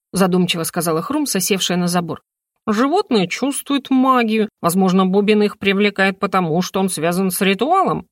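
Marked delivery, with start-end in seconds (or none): 2.7-8.1 lightly voiced talking bird. Bird explaining to the heroine, lightly voiced and knowing. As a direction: lecture like a wise little bird. Хрумса speaks.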